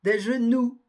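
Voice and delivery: genoux ending on the "ou" vowel; silent final X. Shown as a demonstration. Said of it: "on ne prononce pas le X".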